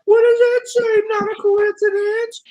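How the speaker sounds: mocking impression. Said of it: "that's exactly how he sounds".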